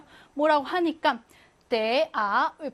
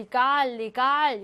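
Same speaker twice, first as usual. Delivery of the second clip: 이 깔, 리갈 with 깔 and 갈 stressed; stress on second syllable; slower than usual. Shown as a demonstration. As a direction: lean on the final syllable in 이 깔, 리갈. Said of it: "이런 것들은 강세가 다 이 강세입니다". (이 깔, 리갈 모두 둘째 음절에 강세)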